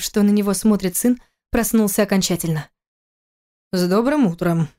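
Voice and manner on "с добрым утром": строго. Acted. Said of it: "проговорил он строго".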